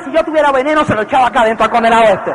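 low, fast grumbling aside; grumbling wife. Retold or imitated. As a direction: mutter a dark joke under breath. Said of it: "la mujer sigue cocinando y dice".

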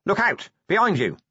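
high-pitched, urgent yell; alarmed shout, pitch jumping up; yelled warning. A narrator's reading. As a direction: cry out to warn someone in danger. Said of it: "Vimes yelled".

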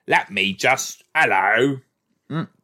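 playful mock British accent. Host trying out a fun way to talk, British accent. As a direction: try out a British greeting for fun. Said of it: "it's a fun way to talk".

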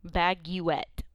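"Baguette" with an extra "you" inside, bag-you-ette; spelled-out reading of Baguette, sounding the U; deliberate mispronunciation. Shown as a demonstration. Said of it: "That's how you order it".

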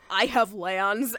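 pouting Tamlin. Retold or imitated. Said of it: "this boy is pouting".

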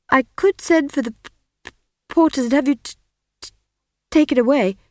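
high, halting stammer; nervous young wizard stammering; stuttering young wizard. Acted. Simon threatens, stammering.

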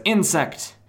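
high, loud, pompous declaration; hammed-up villain announcing himself; villain's proclamation. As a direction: declaim it grandly, slowing down. Villain's grand entrance speech, acted out.

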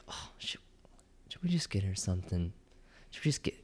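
hushed, second-thoughts whisper; guilty whisper. Retold or imitated. Boyfriend and roommate privately rethink getting her food, guilty whisper. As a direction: whisper it sheepishly, as if caving.

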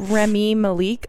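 Remy Malik with the last syllable stressed, "ma-LEEK"; attempted foreign name. Real, not acted. Host attempting an actor's name, "Remy Malik" with a long final "leek". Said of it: "I tried my best".

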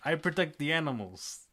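mock noble hunter. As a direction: play the pompous eco-hunter, hammed up. Mocking a preachy Kraven.

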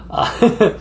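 a stray Aussie-sounding uh; a hint of Australian twang; Australian accent. Real, not acted. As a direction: slips into Australian. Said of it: "There he goes with the Australian again".

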